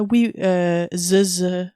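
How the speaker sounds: mock French accent with buzzing Z's; joke French accent. Streamer mimics the jokes about French speakers, mock French accent. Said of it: "putting Z's everywhere".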